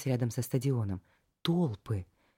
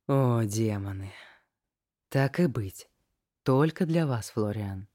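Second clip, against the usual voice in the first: languid; 2 semitones lower, slower than usual. Acted. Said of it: "томно молвил настырный тип".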